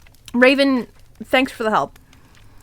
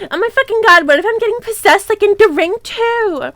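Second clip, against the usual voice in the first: mock panic; 6 semitones higher than usual. Upset outburst after angry reply.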